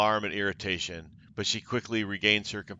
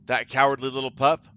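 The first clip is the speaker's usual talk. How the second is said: a touch of scorn, lightly voiced; scoffing. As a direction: sneer at the cowardly cleric. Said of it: "Xandria scoffs".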